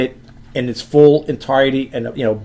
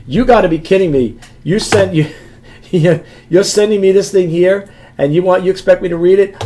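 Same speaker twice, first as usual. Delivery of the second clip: mock-incredulous complaint, a little higher; sarcastic buyer; 4 semitones higher, 4 dB louder than usual. Imagined buyer complaining to seller about tiny print, sarcastic. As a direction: lightly play a disbelieving customer. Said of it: "if I get any sarcasm from a buyer".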